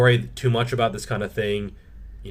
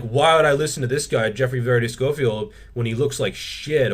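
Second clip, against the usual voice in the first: mock heckler, dismissive; 3 semitones higher, 3 dB louder than usual. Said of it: "People are like".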